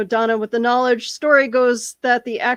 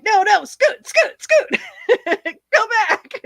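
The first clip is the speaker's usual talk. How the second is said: high, loud, cackling witch voice; 10 semitones higher, 5 dB louder than usual. Retold or imitated. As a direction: shoo people off like a cackling witch. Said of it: "was a witch".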